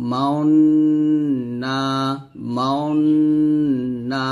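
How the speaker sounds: MAUNNA with a long held nasal hum on the n, lips rounded; ishmam with rounded lips. Shown as a demonstration. Teacher showing students ishmam, lips rounded on a long ghunnah in মাউন্না. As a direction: stretch মাউন্না slowly, humming the ghunnah through rounded lips. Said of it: "ঠোঁটটা গোল করে ফেলবো".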